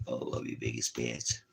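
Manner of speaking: low, softened doting voice; tender affection. Real, not acted. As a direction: say it low and fond to a pet. Fond words to his pets.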